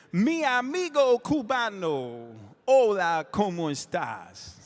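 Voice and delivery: lingering delivery in a singer's style. Retold or imitated. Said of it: "But he didn't say it like that".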